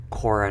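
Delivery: Cora said with an OR vowel; misheard name. Retold or imitated. Teacher asking on behalf of a student, misheard name. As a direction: say Cora to rhyme with Nora. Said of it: "Her name's Cara".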